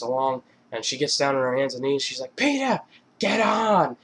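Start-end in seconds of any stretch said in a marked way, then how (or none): 2.4-4.0 high, slow, drawn-out whine; drunken Lois. Retold or imitated. Drunk wife calling her husband from the floor, slow high whine. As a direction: stretch out a demanding call in a high cartoon-wife voice.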